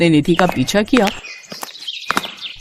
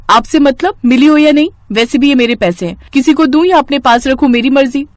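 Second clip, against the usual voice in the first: defiant, raised and sharp; rude retort; 5 semitones higher than usual. Acted. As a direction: throw it back at your sister. Nidhi snapping at her sister.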